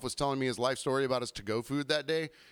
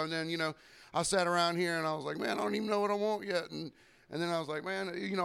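rambling customer; 5 semitones higher than usual. Retold or imitated. Server mimicking a rambling customer, high chatty voice. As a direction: imitate a customer babbling about a to-go order, pitched up. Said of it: "they go".

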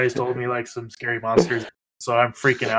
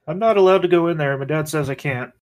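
put-on child voice; 3 semitones higher, 3 dB louder than usual. Child character refusing.

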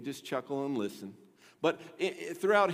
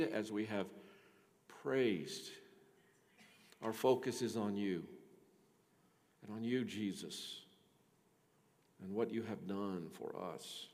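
soft, hushed pastoral prayer voice; softer voice of a pastor opening in prayer; 5 semitones lower, 7 dB quieter than usual. Acted. Pastor leads congregation in prayer.

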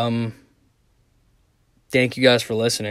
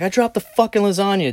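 retold upset confession; 8 semitones higher than usual. Confesses the accident to sister, retold.

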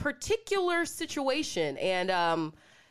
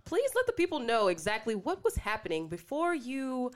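news anchor voice; 3 dB quieter than usual. Pretend. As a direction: introduce the guest like a TV anchor. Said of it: "let me turn on my news anchor voice".

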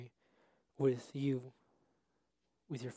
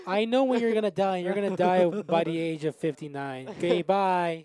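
gruff character voice; 4 semitones higher, 9 dB louder than usual. Acted. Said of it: "And he tells you".

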